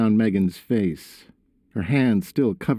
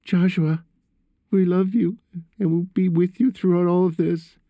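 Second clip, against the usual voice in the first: high, fragile motherly reassurance; weak reassurance; 10 semitones higher than usual. A narrator's reading. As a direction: assure your son in a high, weak voice. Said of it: "Megan assured with a weak voice".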